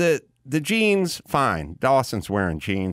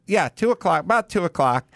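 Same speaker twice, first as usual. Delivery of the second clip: himself, retold; 7 semitones higher than usual. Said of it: "And I go".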